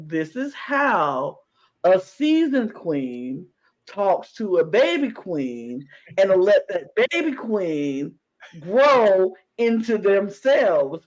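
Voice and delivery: slow, deliberate and admiring; slow earnest praise. Retold or imitated. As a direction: spell it out slowly. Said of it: "And I was like".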